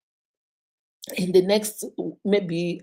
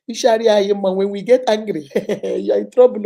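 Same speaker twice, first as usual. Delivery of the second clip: emphatic warning; 7 dB louder than usual. Real, not acted. Warning about angry women.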